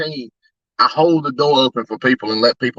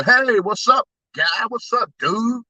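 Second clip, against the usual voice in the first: higher, casual greeting with rising ends; normal customer greeting; 7 semitones higher, slower than usual. Retold or imitated. Customer walking up to say hi, high upbeat greeting. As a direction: imitate a friendly walk-up hello. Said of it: "they're normally like".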